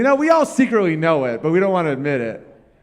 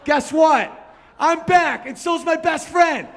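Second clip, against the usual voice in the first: excited dog voice; 9 semitones higher than usual. Retold or imitated. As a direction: burst with doggy joy, faster. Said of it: "He goes".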